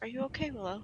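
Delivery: very quiet. Taking the offered hand, the character speaks so no one else hears, very quietly. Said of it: "just say very quietly so no one else hears".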